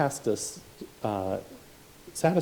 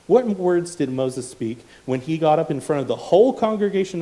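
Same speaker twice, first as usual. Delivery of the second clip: louder, pressing repeated question; loud rhetorical questions; 5 semitones higher, 7 dB louder than usual. Acted. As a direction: hammer the question home.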